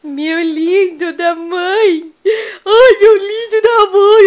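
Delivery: slow doting coo; tender cooing. Real, not acted. Cooing with love.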